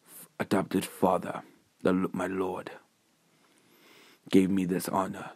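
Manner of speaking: lightly voiced, subdued refusal; earnest hero Deku. Deku refuses handouts from Nezu, quietly earnest. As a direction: hold it soft and restrained, halting.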